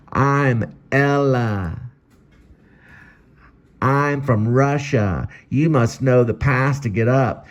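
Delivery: high, slow, guarded voice; guard the window, suspicious; Ella demanding. Acted. Ella from the window demanding the password, high and slow.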